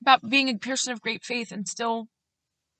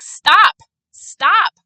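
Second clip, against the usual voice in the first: louder, higher insistent stop; exasperated stop; 7 semitones higher, 10 dB louder than usual. Retold or imitated. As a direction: cut the overachieving short, exasperated. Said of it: "So she was like".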